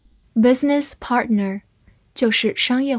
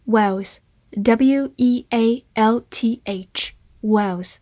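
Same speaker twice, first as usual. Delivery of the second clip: 1 spelled out slowly; much slower than usual. Shown as a demonstration. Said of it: "teacher spells word slowly".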